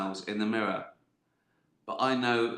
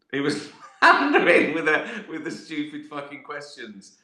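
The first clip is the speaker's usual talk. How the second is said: laughing through the word floundering; 4 semitones higher, 6 dB louder than usual. Real, not acted. Gloating over a floundering rival, laughing hard. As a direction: crack up mid-sentence, loud.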